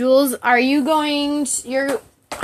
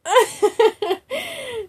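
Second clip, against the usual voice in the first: high laugh; 12 semitones higher than usual. Real, not acted. Laughing after reacting to picture.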